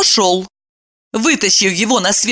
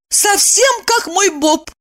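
high, slow, exclaiming; delighted; 13 semitones higher, slower than usual. A narrator's reading. Evdokia exclaims, comparing him to her dog. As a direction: throw up your hands. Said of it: "всплеснула руками".

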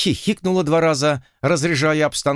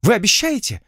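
higher, eager exclamation; eager hope; 9 semitones higher than usual. A narrator's reading. Heroine asks the lord with eager, higher hope. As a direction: seize on the promise eagerly. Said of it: "со страстной надеждой".

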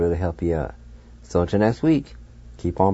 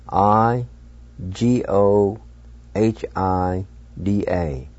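spelled out; slower than usual. Shown as a demonstration. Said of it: "and it's spelled".

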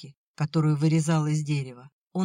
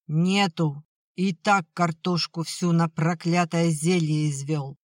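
louder, sharp scolding no; angry refusal; 3 dB louder than usual. Acted. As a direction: snap it back at him. Mother refuses vodka angrily.

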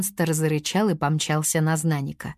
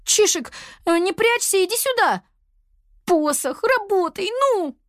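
high pleading calls, climbing higher; more and more anxious high calls; calling out; 13 semitones higher than usual. A narrator's reading. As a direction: coax the pet out, then urge the staff. Girl calling for lost pet.

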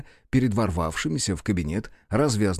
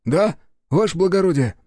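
high, loud servile clerk; eager secretary; 8 semitones higher, 6 dB louder than usual. A narrator's reading. Secretary answers his master from the doorway, high and eager. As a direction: pop in eager to serve.

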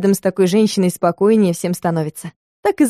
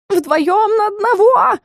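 high, slow wailing complaint; howling cat; 12 semitones higher, slower than usual. A narrator's reading. Cat wails at witch and assistant ganging up. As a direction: wail about the unfairness. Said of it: "выл паршивец".

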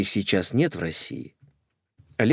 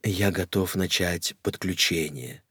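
low solemn; 4 semitones lower, 6 dB quieter than usual. Acted. Guru announces.

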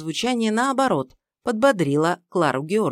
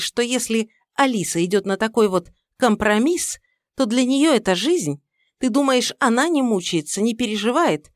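heated mother-in-law; 5 semitones higher, 4 dB louder than usual. Acted.

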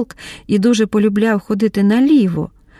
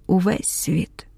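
whisper; 5 dB quieter, slower than usual. A narrator's reading. Mar'yana overwhelmed, voice fades.

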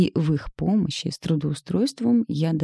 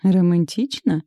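wry smirk; 2 semitones higher, 4 dB louder, slower than usual. Acted. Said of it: "Криво усмехнулась я".

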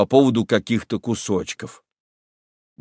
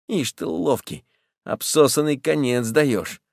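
offended; 4 semitones higher than usual. Acted. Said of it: "обижается Федченко".

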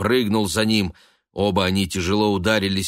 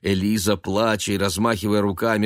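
plain reading voice

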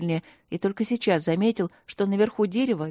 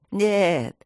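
drawn-out good-natured no. Acted. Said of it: "протянуло добродушно дерево".

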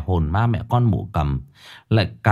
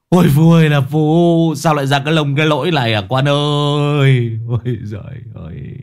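lamenting.

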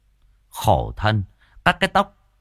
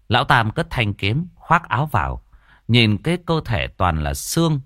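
ordinary delivery

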